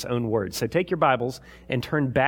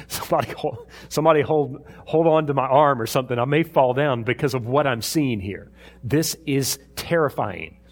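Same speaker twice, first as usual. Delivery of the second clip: mock alarm. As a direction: play a rattled onlooker grabbing for support. Acting out the people at the mountain.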